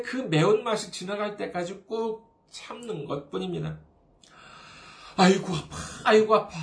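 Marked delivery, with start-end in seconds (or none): 5.2-6.6 "아이고 아파" moaned louder, like a stubbed toe; hammed-up ouch; mock cry of pain. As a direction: whine about the sore toe, half-acted. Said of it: "해도 괜찮아요".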